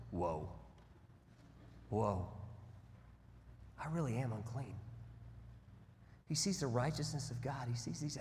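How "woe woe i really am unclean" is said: low, soft, crushed groan of woe; despairing woe. Acted. Isaiah before God's throne, low and broken in despair. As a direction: let it sink out of you in despair. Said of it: "a pretty good translation of woe is".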